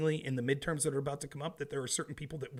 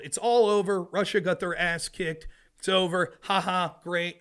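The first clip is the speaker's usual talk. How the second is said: mocking the media; 3 semitones higher, 5 dB louder than usual. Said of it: "we're being told".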